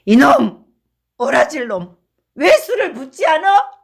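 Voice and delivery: put-on loud, high angry yelling at the boy; drunken scolding. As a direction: tear into the kid for not pouring. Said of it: "야단을 쳤다".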